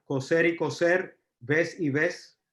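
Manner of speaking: "coser y coser" and "ves y ves" said slowly, S and C or Z sounding the same; slow seseo demo with identical S sounds. Shown as a demonstration. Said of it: "Eso se llama ceseo".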